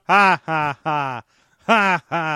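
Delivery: imitated villain laugh, spaced out; slow separate ha-has trailing on; Joker. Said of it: "it's just the Joker hits the ground".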